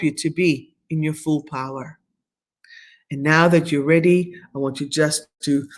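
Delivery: measured meditation leader, unhurried pauses between phrases; guided meditation. Acted. Leads a closing guided meditation.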